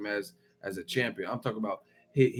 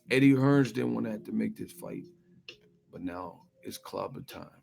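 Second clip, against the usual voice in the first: Wilder impression. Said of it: "That's how Wilder be talking".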